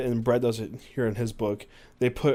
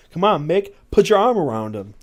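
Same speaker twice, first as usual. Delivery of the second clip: goading; 7 semitones higher, 9 dB louder than usual. Acted. Prankster egging friend on.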